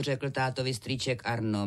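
ordinary delivery

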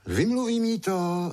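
put-on a small boy sure of himself; boy's confident promise. A narrator's reading.

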